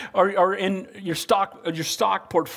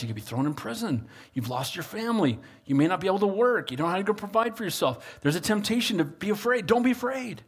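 Peter reassuring; 3 dB quieter than usual. Retold or imitated. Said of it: "here's what Peter's saying to him".

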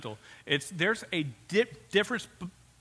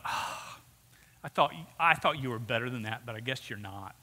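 sighing, let-down condescension, dropping low and soft at the end; condescending; 5 semitones lower, 3 dB quieter than usual. Acted. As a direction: talk down with a disappointed sigh. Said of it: "They're condescending to people".

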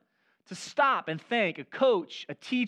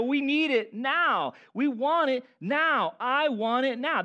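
entitled; 6 semitones higher, 4 dB louder, slower than usual. Retold or imitated. Acting entitled customer.

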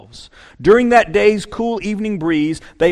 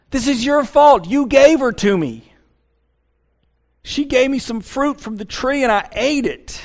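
higher, petulant blame; Adam blaming God; 7 semitones higher than usual. Retold or imitated. Adam still whining his excuse to God, higher. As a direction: keep the high whiny excuse going. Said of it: "The man said".

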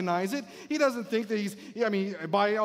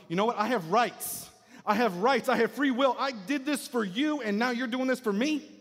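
higher-pitched indignant protest, building; indignant complaint; 3 semitones higher than usual. Acted. Church member protesting to God about fairness, indignant. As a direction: plead your rights like someone wronged.

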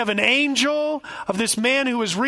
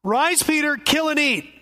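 higher, commanding call from above; voice of God; 4 semitones higher than usual. Acted. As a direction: order him like God from heaven. God's third command.

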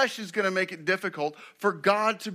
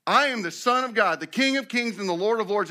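raised, loud voice of God; booming proclamation; 5 semitones higher, 4 dB louder than usual. Acted. God bursting into the sinner's house, loud proclamation. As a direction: declare it grandly, as the King announcing himself.

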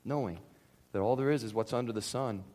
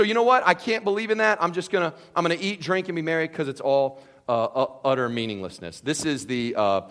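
ordinary talk, nothing marked

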